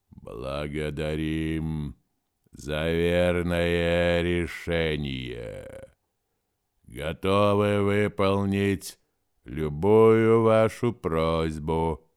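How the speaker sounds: very slow, solemn otherworldly voice; slow forest voice. Acted. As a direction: speak as the ancient forest, slowly. The forest speaks.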